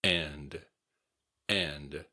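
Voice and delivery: "And." with the final D sounded; a careful "And." that keeps its D; clearly pronounced D. Shown as a demonstration. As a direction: finish each "And." on an audible D. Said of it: "Be sure to pronounce the D".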